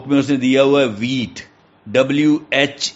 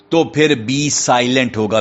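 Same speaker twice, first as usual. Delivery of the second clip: ordinary talk, nothing marked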